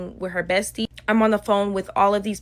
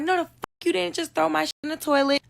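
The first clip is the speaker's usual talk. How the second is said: outraged yell; 8 semitones higher, faster than usual. Retold or imitated. Purse thrown in toilet.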